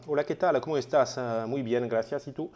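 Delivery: switching into Spanish for fun; playful Spanish greeting. Pretend. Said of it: "j'avais envie de parler espagnol aussi".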